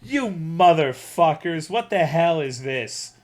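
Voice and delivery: loud, slow, worked-up rant; slow and heated, still angry; mad. Retold or imitated. Retelling the Sonic order, genuinely mad. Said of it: "I was like".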